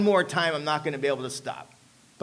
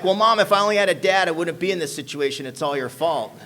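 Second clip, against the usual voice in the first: guilt-tripping; 4 dB louder than usual. Retold or imitated. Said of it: "I hit that guilt button".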